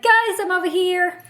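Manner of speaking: high-pitched mock hail; imitated call-out. Taxi driver hailing the couple outside, imitated high call.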